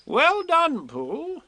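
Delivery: high, kindly Rabbit praise. A narrator's reading. Rabbit praising Pooh after the rescue, kindly. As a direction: pat him on the back with your voice. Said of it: "said Rabbit kindly".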